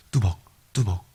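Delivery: low, separated footfalls; ominous step sounds; imitated footsteps. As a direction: mimic an intruder's heavy tread. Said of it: "뚜벅 걷는데".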